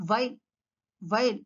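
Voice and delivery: "While" as vile, teeth on bottom lip; V sound. Shown as a demonstration. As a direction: start "While" with V. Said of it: "it has to do with the teeth".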